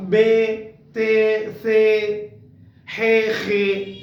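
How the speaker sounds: letters named the Urdu way, be te se he khe; the wrong way: बे ते से हे खे with the trailing e. Shown as a demonstration. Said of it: "don't pronounce them at all as".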